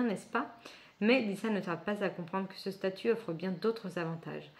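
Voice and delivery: even, continuous reading voice; blurb read aloud. Real, not acted. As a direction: read out the back cover of a novel. Reads the book's blurb aloud. (lecture à voix haute d'un résumé)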